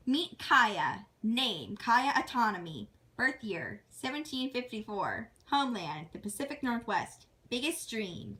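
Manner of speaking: measured list-reading voice; reading out stats. Acted. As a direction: read each heading, then its entry. Reads character stats.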